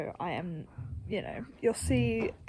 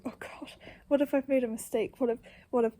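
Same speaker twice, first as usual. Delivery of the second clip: panicked worrying; 3 semitones higher, faster than usual. Retold or imitated. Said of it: "because I was like".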